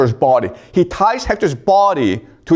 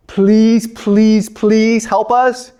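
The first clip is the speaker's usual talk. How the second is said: high, slow begging Greeks; mock pleading; 6 semitones higher, much slower than usual. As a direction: drag out the please like desperate soldiers. Greeks begging Achilles for help.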